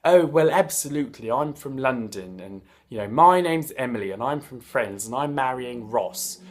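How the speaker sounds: lightly hammed-up genteel English accent; mild mock-proper British accent; typical British accent parody. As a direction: put on a polite London English voice. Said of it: "more harsh than this typical kind of".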